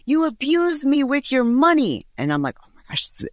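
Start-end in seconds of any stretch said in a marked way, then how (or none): 0.1-2.1 put-on quoting the girlfriend. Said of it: "she is saying to him". 2.6-3.3 hushed whisper of shock; whispered gasp. Retold or imitated. To her husband, eavesdropping on the fight: whispered shock.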